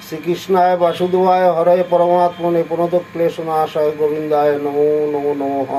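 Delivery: steady Sanskrit mantra recitation; mantra recital. Acted. Reciting Gayatri and prayers before the lesson, in mantra recital. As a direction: chant the verses evenly and reverently.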